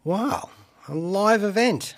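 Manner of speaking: normal talking voice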